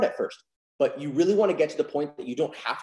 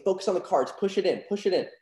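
confident; 4 semitones higher than usual. Shown as a demonstration. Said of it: "you were so confident when you said".

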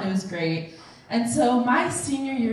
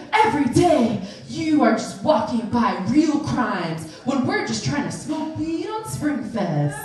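indignant rant; 3 semitones higher, 3 dB louder than usual. Retold or imitated. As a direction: imitate a friend grandly protesting. Andrew's acted rant at authorities.

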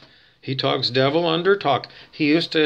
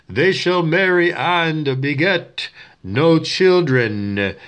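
slow, solemn scripture line; solemn verse reading; slower than usual. Shown as a demonstration. A hint of Lovejoy reading the verse slowly. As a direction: read it like a preacher. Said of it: "You're supposed to say".

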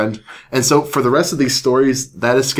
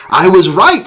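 higher, louder British exclamation; triumphant British doctor; 8 semitones higher, 7 dB louder than usual. Acted. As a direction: announce it in triumph.

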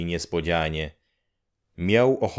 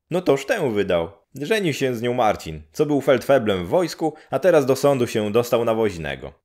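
high, quick and louder; gossiping village woman; 5 semitones higher, 4 dB louder, faster than usual. Acted. Neighbour woman telling Grześ the gossip, quick and high. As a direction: rattle off the news with relish.

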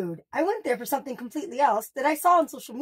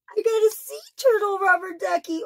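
overwhelmed by cuteness; 7 semitones higher than usual. Real, not acted. Reveal of sea turtle duck.

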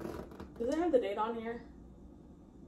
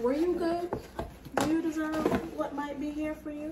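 higher, teasing mock questioning; taunting parent; 4 semitones higher than usual. Parent taunting people before handing over goodies, teasing. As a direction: tease like a parent withholding a surprise. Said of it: "likes to taunt people".

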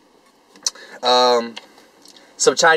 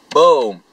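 punch sound; 4 dB louder than usual. Shown as a demonstration. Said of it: "this is how it sounded".

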